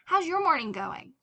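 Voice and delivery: put-on high, bright eager boy; cheerful child. Boy chirpily asks father.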